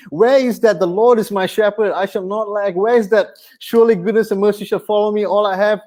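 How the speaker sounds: complaining prayer. Retold or imitated. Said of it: "I've said the same words".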